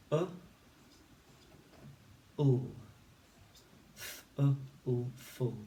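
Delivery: t, thought, full said apart; sounding out thoughtful. Shown as a demonstration. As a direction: segment then blend. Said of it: "say the sounds and build the word".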